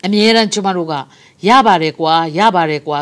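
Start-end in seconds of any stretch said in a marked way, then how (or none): 1.2-3.0 slow, lower, easygoing brush-off; mock complacency. Preacher imitating a careless believer, slow and complacent. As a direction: let it drag like someone who can't be bothered. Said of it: "ဆိုတာမျိုးအမြဲတမ်းသဘောမထားဘဲနဲ့".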